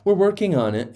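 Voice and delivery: high-pitched coy imitation; mock mysterious. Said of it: "wants to be all mysterious and say".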